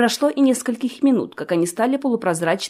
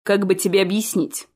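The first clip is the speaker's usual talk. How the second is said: reproachful. A narrator's reading. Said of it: "укоризненно взглянул".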